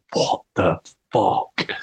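slow, spaced-out dismay; stunned disbelief. Retold or imitated. Finding out the theft went back months, slowly stunned. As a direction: let each word drop slowly, stunned.

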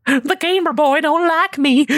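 sulky Corey voice. Retold or imitated. Voicing absent Corey sulking.

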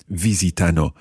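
visitano as four quick even notes, VI first and strongest; rhythmic VI-si-ta-no; four even semiquavers. Shown as a demonstration. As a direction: tap out vi-si-ta-no evenly from a stressed VI. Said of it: "It's four semiquavers".

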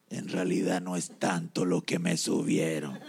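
very low, dejected admission; acted disheartened worker; discouraged. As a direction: let the voice sink as if deflated. Man voiced, now discouraged.

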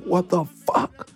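slow, stretched-out disbelief; bewildered Eli. Retold or imitated. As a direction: drag it out, totally lost. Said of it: "It's like".

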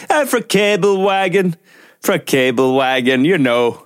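a lightly voiced Englishman, slow; English accent. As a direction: play an Englishman bluffing his hometown. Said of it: "en engelskmann og begynt å snakke nordlending".

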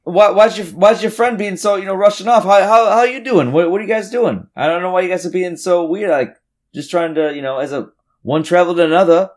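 high, chummy, pestering traveler; butter him up, too eager; pushy stranger voice. Acted. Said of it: "looks at the Tabaxi and says".

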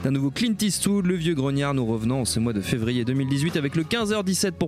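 podcast host presenting the show; scripted show intro. Real, not acted. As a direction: read the intro briskly to the listeners.

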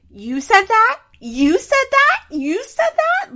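high, loud squeals of disbelief; mock amazement. Vlogger mimics Mandy's reaction to the text, mock amazed squeal.

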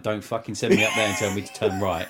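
half-crying, laughing complaint; laughing exasperation. Retold or imitated. Fed up with the shop worker, laughing. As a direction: laugh through the frustration.

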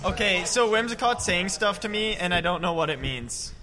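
distant from the microphone; far from mic. Real, not acted. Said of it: "We gotta get closer to the mic".

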